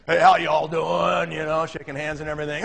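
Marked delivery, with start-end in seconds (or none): 0.1-1.3 slow, laid-back drawl of a big friendly guy; casual hello to the room; easygoing greeting. Retold or imitated. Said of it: "And he's".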